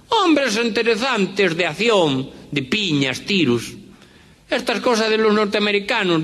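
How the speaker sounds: high-pitched Galician Spanish with lisped ce; Galician accent. Acted. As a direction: play two Galicians chatting about the film. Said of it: "este cuento de gallegos de Galicia".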